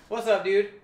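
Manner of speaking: imitating himself awkwardly greeting at a meetup; mock awkward greeting. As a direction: play it like you can't even talk. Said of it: "I'm making fun of him. I can't even talk".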